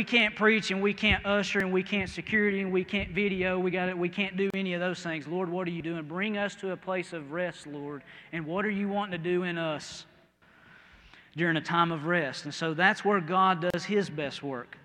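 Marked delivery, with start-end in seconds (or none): 5.3-12.4 soft prayer. Retold or imitated.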